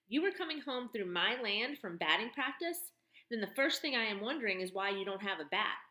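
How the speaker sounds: tough barn woman turning his words on him; mocking tough woman. Woman figure voice.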